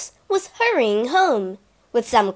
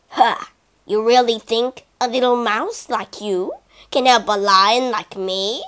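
sneering lion. Acted. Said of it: "he sneered".

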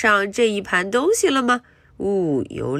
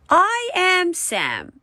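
Sam voice; 11 semitones higher, much slower than usual. Acted. Voicing Sam in the story.

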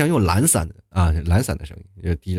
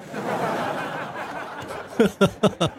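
soft laugh; 10 semitones higher, 7 dB quieter than usual. Real, not acted. Laughing at the Shenyang joke.

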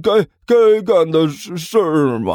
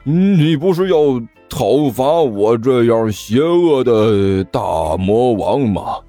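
slow, stammering demon-king challenge; halting, drawn-out villain bellow; shouted demand; 3 semitones higher, slower than usual. Acted. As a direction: call up at an enemy, dragging the words. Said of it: "对着上面的刘阿八大声喊道".

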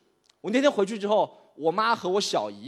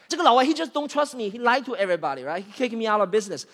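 1 indignant rant; 4 semitones higher than usual. Acted. Ranting about foreign partner in English.

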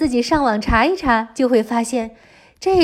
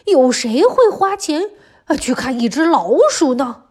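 put-on lively storytelling for little kids; reading to a toddler. A narrator's reading. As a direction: tell it brightly to a small child. Children's story narration throughout.

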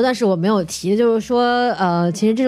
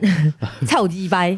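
put-on Taiwanese accent; 2 semitones lower, slower than usual. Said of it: "那个讲台湾腔的大老师又出来了".

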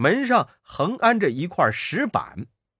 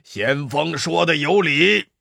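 得意的妖王哈哈大笑; 大笑后称赞先锋; 妖王大笑. Acted. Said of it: "老妖笑道". (得意地大笑)

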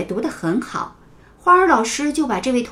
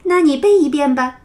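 light, smiling invitation; smiling teacher; 4 semitones higher, 4 dB louder than usual. Acted. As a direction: gently invite the child to recite. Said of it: "花儿老师笑盈盈地说". (老师笑盈盈地鼓励学生)

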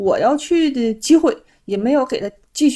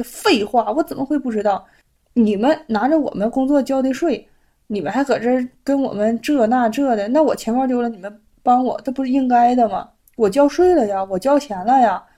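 indignant inner retort; 2 semitones higher than usual. Retold or imitated. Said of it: "我心里合计".

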